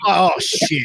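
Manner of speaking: cracking up, half shocked; real laughter. Real, not acted. Host laughs at the guest's flex.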